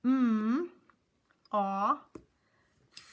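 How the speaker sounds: "M, ah," loud, "th." whispered; sounding out moth. Shown as a demonstration. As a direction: segment each sound clearly. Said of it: "Three sounds".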